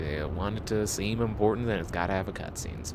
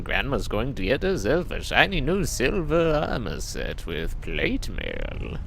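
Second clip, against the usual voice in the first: grandma voice; 4 semitones higher than usual. Pretend. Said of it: "My grandmother voice".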